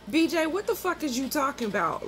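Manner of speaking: exasperated retelling of a comeback; retold indignant challenge. Retold argument with the man.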